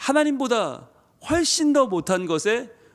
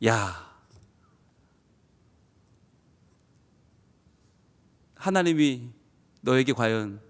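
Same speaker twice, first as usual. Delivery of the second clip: disappointed; 6 semitones lower than usual. Acted. God voiced as doubting.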